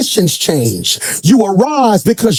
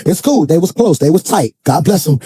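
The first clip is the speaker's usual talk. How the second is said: understanding, easygoing God; 5 semitones lower than usual. Acted. God excuses Joshua's grieving.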